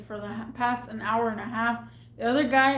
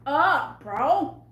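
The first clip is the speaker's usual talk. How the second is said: louder, raised angry retort; retold angry shut-down; mad outburst; 3 semitones higher, 4 dB louder than usual. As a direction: snap back in exasperation. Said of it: "I was so freaking mad".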